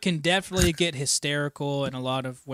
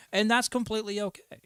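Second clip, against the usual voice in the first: normal talking voice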